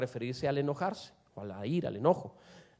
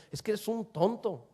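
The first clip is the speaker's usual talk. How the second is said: firm, emphatic put-down without shouting; mean it as a real insult; restrained but pointed jab; forceful insult; 3 semitones higher, 4 dB quieter than usual. Shown as a demonstration. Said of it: "decirle de una manera fuerte".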